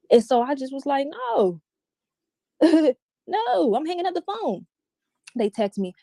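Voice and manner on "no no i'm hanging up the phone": high, laughing no; laughing refusal. Retold or imitated. Refusing the caller, high laughing no. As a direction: laugh it off as you hang up. Retelling hanging up on him.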